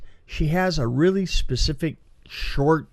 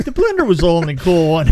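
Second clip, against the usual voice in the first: said through a laugh, a little louder; 6 dB louder than usual. Real, not acted. Laughing to her co-host about the one cool blender kill. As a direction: chuckle while you say it.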